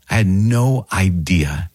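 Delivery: slow realization. Real, not acted.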